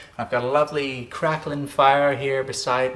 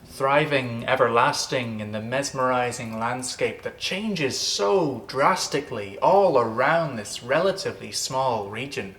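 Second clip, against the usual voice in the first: lilting irish storyteller. Acted. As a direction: paint the landscape like a fireside tale. Narrates Connemara legend intro.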